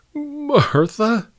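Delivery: high-pitched, rising alarmed query; bewildered at someone's sudden tears; startled concern. A narrator's reading. Man alarmed as woman cries.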